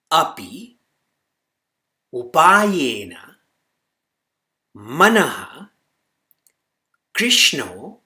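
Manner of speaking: slow, word-by-word Sanskrit with long pauses; slow recitation. Shown as a demonstration. Teacher dictates a verse for students to memorize, slow recitation. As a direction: recite it slowly and firmly, each word set apart. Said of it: "I'll say this slowly".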